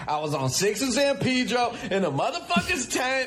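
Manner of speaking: high-pitched swaggering mock tirade; hammed-up rant. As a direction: put on a wild, high boastful rant.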